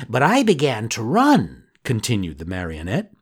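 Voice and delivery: building to the hanging; excited telling. Acted. Pinocchio tells dramatically.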